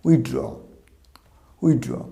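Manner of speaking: উইথড্র twice as "with-draw", pause between; corrected উইথড্র. Shown as a demonstration. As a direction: say উইথড্র keeping the "th". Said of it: "তাহলে উচ্চারণ কী হবে?".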